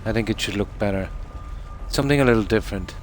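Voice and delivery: talking around a cigarette; words through a cigarette held in mouth. Real, not acted. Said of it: "I tend to speak when I have a cigarette in my mouth".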